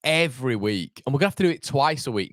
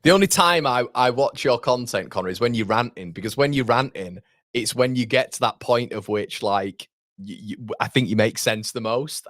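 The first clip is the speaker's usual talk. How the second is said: retold viewer; 3 dB louder than usual. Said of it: "he said".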